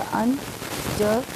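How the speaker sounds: "अन" and "जब" as short, unstressed beats; unstressed syllables. Shown as a demonstration. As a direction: say "अन, जब" quickly, with no weight on either syllable. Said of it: "में बोलने में time नहीं लग रहा है".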